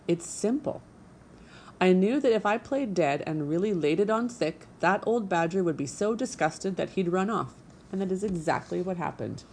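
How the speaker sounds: a vain little stage diva; theatrical opossum. Acted. Opossum explaining her act.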